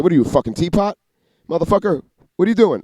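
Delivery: mock a boss scolding on the job; Uncle Jimmy. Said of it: "my Uncle Jimmy said".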